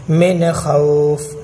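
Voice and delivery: "مِنْ خَوْفٍ" with a quick clear n; short un-nasalised n in "مِنْ خَوْفٍ"; no ghunnah. Shown as a demonstration. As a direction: move straight from "مِنْ" into "خَوْفٍ" without humming. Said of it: "ناک سے آواز نہیں نکلے گی".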